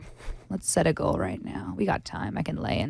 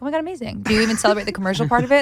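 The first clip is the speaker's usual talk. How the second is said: mock gushing; 4 semitones higher, 5 dB louder, much faster than usual. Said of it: "And I'm like".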